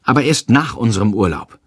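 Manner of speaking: high, exasperated quarrel voice; distressed, high-pitched reproach; desperate scolding. A narrator's reading. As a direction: argue back with rising pitch. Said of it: "schimpft Freier verzweifelt".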